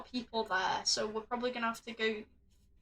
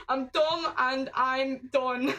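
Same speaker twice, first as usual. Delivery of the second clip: laughing; much slower than usual. Real, not acted. Laughing at herself after panic.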